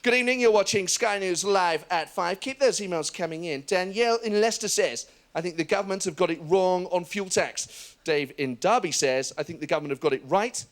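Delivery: authoritative newsreader delivery; mock news anchor, grave and measured; Sky News anchor voice. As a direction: parody of a live Sky News presenter. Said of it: "It's always stuff like".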